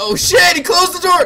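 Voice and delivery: high, loud, startled panicked outburst.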